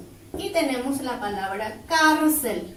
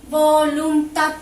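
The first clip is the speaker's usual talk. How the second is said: "Voluntad" slow and loud, syllable by syllable; teacher's slow, emphatic "Voluntad"; showing the stressed syllable; 2 semitones higher, 7 dB louder, much slower than usual. Shown as a demonstration. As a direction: stretch out "Voluntad" loudly to show where the stress falls. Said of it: "Se carga la voz".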